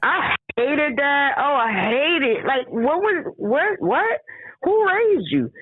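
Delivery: rising indignation, slow to high; indignant. Real, not acted. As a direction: build outrage to a peak.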